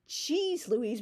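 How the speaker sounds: Cheese with a ch sound again, Cheese Louise. Shown as a demonstration. Quoting Nancy's phrase, Cheese pronounced with ch. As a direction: stress the odd Cheese.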